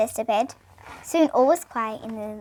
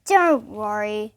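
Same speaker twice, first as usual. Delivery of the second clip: reassuring Santa; 4 semitones lower, much slower than usual. Acted. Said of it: "said Santa".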